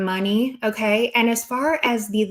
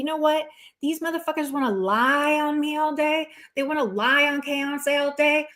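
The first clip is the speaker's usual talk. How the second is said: 1 raised indignant; 6 semitones higher than usual. Real, not acted. Venting at haters.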